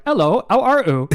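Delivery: high, loud hammed-up British accent; mock British accent. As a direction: imitate a silly British accent. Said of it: "doing the British accent".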